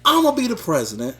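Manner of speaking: fiery, preachy rapper-style promo, building in spurts; boastful campaign rant in a lightly voiced rapper impression; a famous rapper's promo. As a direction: sell yourself as a famous rapper to the crowd. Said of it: "Because I tried to be Kanye with it".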